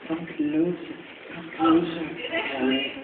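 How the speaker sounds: a hint of Voldemort, drawing him in; mild Voldemort creep. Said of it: "sounds like Voldemort".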